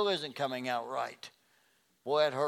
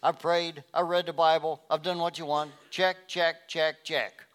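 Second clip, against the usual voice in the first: ticking items off smugly; mock checklist; 2 semitones higher, 5 dB louder than usual. Believer ticking off duties, smugly self-satisfied. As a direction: rattle it off like a checklist. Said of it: "not just a little checklist".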